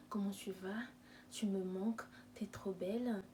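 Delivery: hushed, sweet-talking tone; soft and sweet. Retold or imitated. The caller sweet-talking her, soft and hushed. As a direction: coax her gently, like a flirting caller. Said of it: "au début, c'était genre doux".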